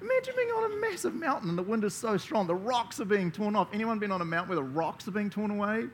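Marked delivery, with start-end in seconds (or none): 0.0-1.5 dramatic awe. Acted. Preacher imagines terrifying mountain.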